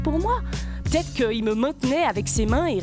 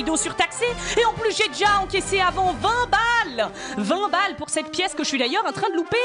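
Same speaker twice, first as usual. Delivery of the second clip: indignant rant; 4 semitones higher than usual. Acted.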